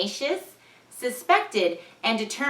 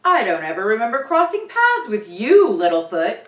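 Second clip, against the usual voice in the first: mild creature voice; 7 dB louder than usual. Acted. Bigfoot meets Ben.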